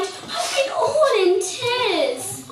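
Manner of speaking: tearful wife. Acted. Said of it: "she cried".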